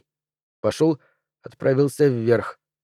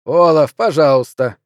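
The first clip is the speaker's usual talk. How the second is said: louder, firm plea; insistent; 6 dB louder than usual. Acted. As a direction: press him to do it. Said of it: "настаивал Артур".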